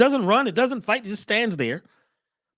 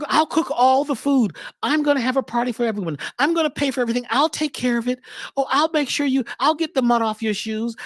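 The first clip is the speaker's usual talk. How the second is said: fawn voice; 2 semitones higher than usual. Retold or imitated. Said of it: "and you get this voice".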